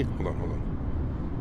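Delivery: slow, hushed whisper. Real, not acted. Streamer hushing chat before the dog trick, whispered. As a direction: whisper so the dog isn't startled.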